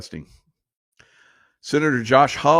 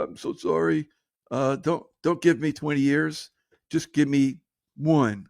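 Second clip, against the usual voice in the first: mock pleading criminal; 4 semitones higher than usual.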